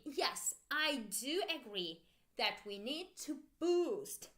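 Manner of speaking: emphatic "do" in the answer; stress on DO. Shown as a demonstration. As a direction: model it for repeating, leaning on "do". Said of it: "Repeat with me".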